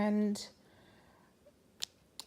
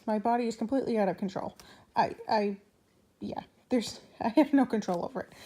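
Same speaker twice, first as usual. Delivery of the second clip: rushed, breathless laughing; out of breath; faster than usual. Real, not acted. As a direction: gasp through the hiccups. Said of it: "out of breath and I'm hiccuping now".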